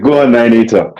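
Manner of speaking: a hint of an Irish accent; lightly put-on Irish accent. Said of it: "That's what, that was my Irish accent".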